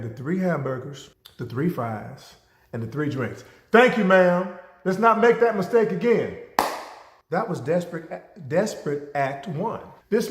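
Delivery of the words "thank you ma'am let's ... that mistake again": smug customer. Retold or imitated. Customer gloating after getting food.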